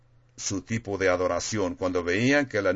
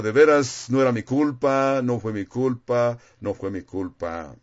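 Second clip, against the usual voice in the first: pleading excuse. Retold or imitated. Preacher imitating someone pleading with a policeman, mildly. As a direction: beg the officer, then trail off. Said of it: "tratan de explicar al policía, de convencerlo".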